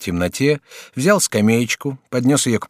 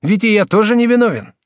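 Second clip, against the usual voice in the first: higher, brighter-pitched polite youth; lightly raised student voice; young student Jacques; 11 semitones higher, 6 dB louder than usual. Acted. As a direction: play the courteous young student.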